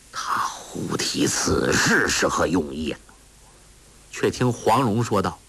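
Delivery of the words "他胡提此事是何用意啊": whispered thought. A narrator's reading. Ouyang Feng's wary inner thought.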